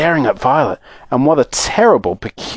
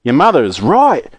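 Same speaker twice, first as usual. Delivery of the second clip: firm fatherly exclamation, barely raised; lightly voiced father calling out; mild acted shout. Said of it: "shouted Mister Beauregard".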